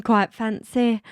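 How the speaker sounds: playful British echo, slowed a little; mock-British, amused; British accent. Echoing co-host's British phrase.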